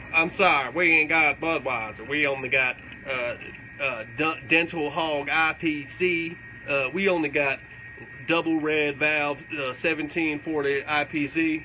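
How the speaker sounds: slow, halting bartender reading odd beer names; bartender impression. Mocking the bar guy who has no Budweiser. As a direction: stumble through the list like a confused bartender. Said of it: "he says it like this".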